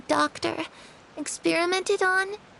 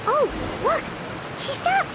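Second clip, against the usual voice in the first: excited whisper-call; 9 semitones higher than usual. Acted. Following the girl secretly.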